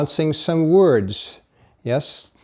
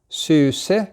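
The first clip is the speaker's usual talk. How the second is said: Suse ending on a clear pitch rise on the last syllable; rising tone on Suse; 4 semitones higher than usual. Shown as a demonstration. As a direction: lift the tone up at the end of Suse. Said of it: "the tone went up on the end".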